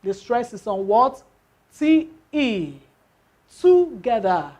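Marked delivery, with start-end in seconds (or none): 3.6-4.5 Together with GE lifted; Together, gently stressed on the second-to-last syllable. Shown as a demonstration. Teacher models Together to students, stress on GE. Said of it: "you don't even need to shout".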